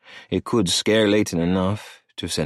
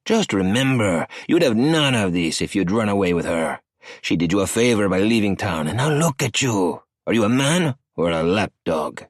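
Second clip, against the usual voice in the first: a lightly voiced cocky older man, pitched up; arrogant cartel boss; 2 semitones higher than usual. Cartel boss Emilio needling Maddie on the phone, sneering. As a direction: sneer the question at him.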